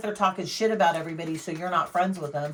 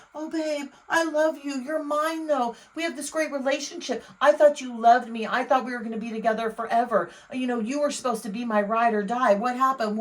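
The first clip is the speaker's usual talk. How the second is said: mock clingy partner; 5 semitones higher than usual. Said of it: "That's what they're saying".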